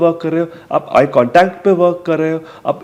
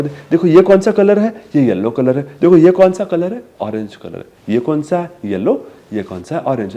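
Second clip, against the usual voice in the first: put-on talking to a toddler. Shown as a demonstration. Parent teaching colours from a picture book, sing-song. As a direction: ask about the colours eagerly. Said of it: "फिर आप इसमें colours बताओगे".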